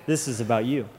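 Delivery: a hint of a quiet inner voice. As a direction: speak it softly, like a voice inside. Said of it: "something inside of me just said".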